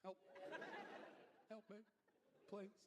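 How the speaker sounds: pleading teddy. Pretend. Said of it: "teddy bear was looking at us like".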